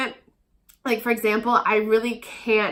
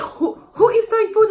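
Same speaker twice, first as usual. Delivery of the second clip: much higher mocking teacher's question; 10 semitones higher than usual. The teacher returns to ask who throws food, higher mock voice. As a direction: parody the teacher asking again. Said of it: "they're like".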